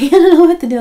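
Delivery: laughing it out loud and high; emotional laughing. Real, not acted. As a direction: laugh through the words, overwhelmed. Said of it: "I'm feeling very emotional today".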